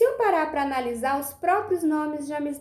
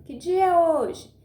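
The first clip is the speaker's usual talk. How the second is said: demonstration question, higher and louder on É; tom de pergunta; 5 semitones higher, 5 dB louder than usual. Shown as a demonstration. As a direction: ask it with É lifted, then falling. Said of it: "Eu estou perguntando". (pergunta de exemplo, com ênfase no É)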